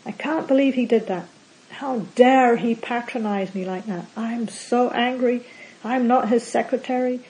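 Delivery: understated demo of angry rumination; mild mock anger. Shown as a demonstration. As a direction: act out a fuming complaint, lightly. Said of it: "it might sound something like this".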